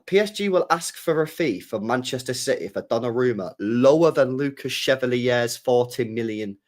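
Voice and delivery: reads the quote again slowly, word by word; rereading it slowly in disbelief. Shown as a demonstration. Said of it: "What the fuck does that mean?".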